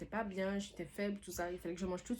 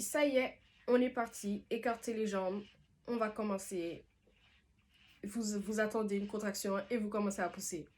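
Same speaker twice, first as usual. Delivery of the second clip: energetic midwife; 3 semitones higher than usual. Retold or imitated. Midwife starts the pushing.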